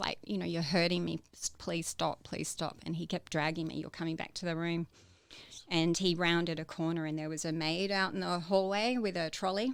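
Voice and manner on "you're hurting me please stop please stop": ordinary talk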